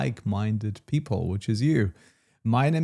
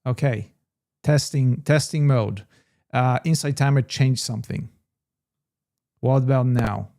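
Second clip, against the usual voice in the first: raised voice, testing the sound; mic check; 5 dB louder than usual. Real, not acted. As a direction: speak up to check if they can hear you. Mic check after audio fails.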